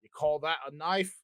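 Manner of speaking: lightly done Crocodile Dundee Aussie; Australian accent. Retold or imitated. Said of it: "the best I can do is".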